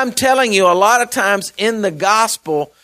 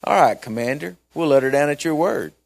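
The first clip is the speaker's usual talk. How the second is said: sarcastic; 2 semitones lower than usual. Retold or imitated. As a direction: agree with sarcastic deference to a commander.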